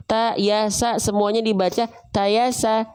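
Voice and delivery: "ta, ya, sa" each with a light open A; thin A vowels. Shown as a demonstration. Teacher lists thin letters for students, light A vowels. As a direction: say "ta, ya, sa" thin, never rounded. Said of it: "Tipis vokal A".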